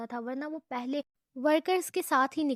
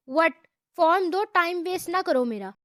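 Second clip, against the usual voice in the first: harsh tone; 5 semitones higher, 7 dB louder than usual. A narrator's reading. Girl demands the form from the rude boy, harsh and loud. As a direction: snap the order at him. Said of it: "سخت لہجے میں کہا".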